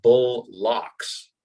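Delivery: "bull locks" as two separate words, both fully sounded; spelled-out pronunciation. Shown as a demonstration. Actor shows how the script spelled it, split into two words. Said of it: "they spelled it out".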